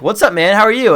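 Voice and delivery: loud, high, eager greeting; pumped-up hello to a buddy; excited. Shown as a demonstration. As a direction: greet him like you're thrilled. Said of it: "I'll be excited".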